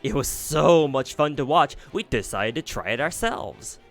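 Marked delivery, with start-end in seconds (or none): 0.0-1.8 mocking taunt. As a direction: savour every cruel word. Fairies taunt Bargus.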